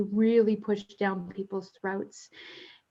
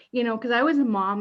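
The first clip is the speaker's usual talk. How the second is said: ordinary talk, nothing marked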